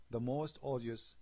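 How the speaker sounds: slow, measured reading of a verse; scripture reading. Acted. Quoting a verse to the audience, slow recitation. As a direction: deliver the verse slowly, pausing before the end.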